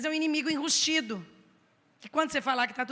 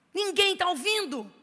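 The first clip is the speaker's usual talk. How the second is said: mock tempter; 5 semitones higher than usual. Tempter line, loud.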